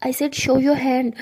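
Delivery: slow, firm demand with each word spaced out; stern demand. Acted. Zoya insisting to see injured hand, slow and firm. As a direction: spell it out word by word, no arguing.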